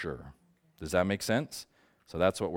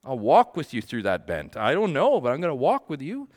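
earnest promise; 5 semitones higher, 4 dB louder than usual. Pretend.

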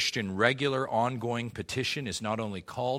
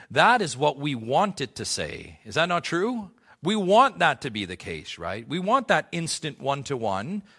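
raised, loud pulpit voice; full-force preaching; 4 semitones higher, 5 dB louder than usual. Acted. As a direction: drive the point home to the church.

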